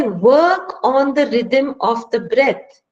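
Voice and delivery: slow, drawn-out guidance on breathing; unhurried breathing coach; slow calming instruction. Shown as a demonstration. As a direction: stretch each phrase slowly as if guiding the breath. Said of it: "So they say".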